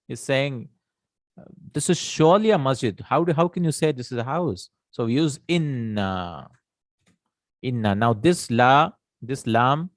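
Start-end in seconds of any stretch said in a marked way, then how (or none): 1.7-4.7 higher-pitched protest; insistent disagreement. Acted. Person still not agreeing it's a house, insistently objecting. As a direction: challenge the claim, mildly incredulous.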